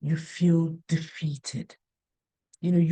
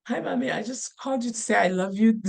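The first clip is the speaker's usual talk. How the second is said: matter-of-fact son; faster than usual. Retold or imitated. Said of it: "the way he was, matter of fact".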